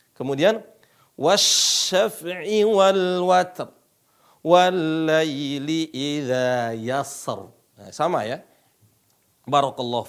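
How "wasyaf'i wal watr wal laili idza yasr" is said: "wasyaf'i wal watr" slow, with a heavy final r; slow recitation. Shown as a demonstration. Teacher modelling verses for the class, slow and measured. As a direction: chant each word out slowly. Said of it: "ikutin saya".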